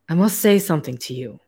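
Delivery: put-on light German accent for the hairless scientist; a hint of a German scientist's accent; German accent, lightly worn. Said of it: "I don't know why this accent".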